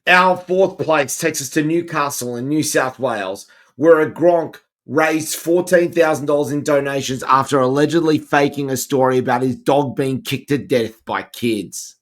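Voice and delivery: steady presenter's read-out; news read. Acted. Host introduces the fourth place story, news read. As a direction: present the next countdown story evenly.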